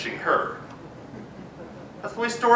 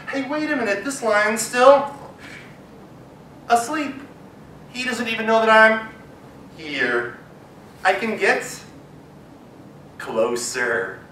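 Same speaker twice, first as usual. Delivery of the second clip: sneaky mouse; 3 semitones higher than usual. Acted. Mouse whispers excited discovery.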